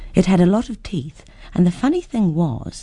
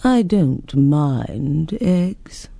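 very slow, drawn-out creature voice; lazily dragging each word; languid dragon; much slower than usual. Acted. Dragon replies.

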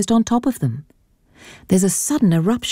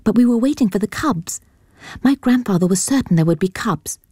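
put-on young girl; 5 semitones higher than usual. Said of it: "she says".

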